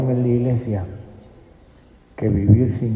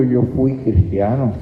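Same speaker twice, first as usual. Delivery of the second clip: mocking echo. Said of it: "y tú dices con orgullo".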